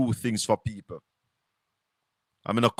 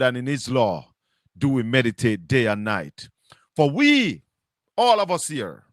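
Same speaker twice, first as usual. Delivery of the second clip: scripture recitation. Real, not acted. Host opens his show by reciting Psalm one, solemn preaching. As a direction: intone each verse like a preacher at the pulpit.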